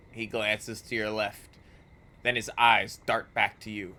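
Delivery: measured storybook narration; story narration. A narrator's reading. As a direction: read it like a dark fantasy narrator. Reads game description.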